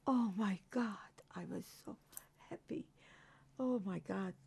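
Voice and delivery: breathless whisper, voice nearly gone; overwhelmed, barely get the words out; choked whisper. Real, not acted. Overwhelmed at mother's return.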